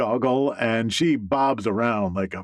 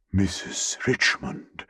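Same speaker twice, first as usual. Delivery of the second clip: breathless hushed gasp of a name, awestruck; frightened whisper; 2 semitones lower than usual. Acted. Boss realizes who she has offended, frightened whisper. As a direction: barely get the name out, stunned. Boss freezes before powerful woman.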